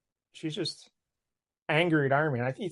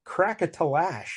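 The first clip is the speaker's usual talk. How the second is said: sound effect read out; slower than usual. Shown as a demonstration. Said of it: "is that sound effect".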